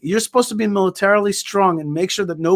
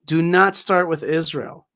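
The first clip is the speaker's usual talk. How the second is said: slow, emphatic retold warning; deliberate, measured ultimatum; firm warning; slower than usual. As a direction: space out each word as a warning.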